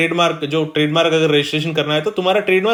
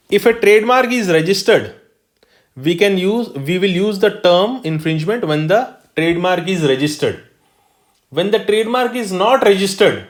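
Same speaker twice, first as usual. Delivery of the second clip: slow, deliberate definition read-out; dictating a definition to the class; slow dictation; much slower than usual. Shown as a demonstration. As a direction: lay the rule out word by word. Teacher dictating definition slowly.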